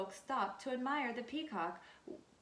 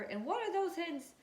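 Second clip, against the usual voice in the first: puzzled farm wife; 5 semitones higher than usual. Acted. Farmer's wife puzzled by hens.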